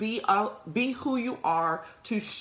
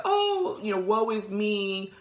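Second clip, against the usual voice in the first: mock self-pity; 3 semitones higher, slower than usual. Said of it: "and the crying and the tears".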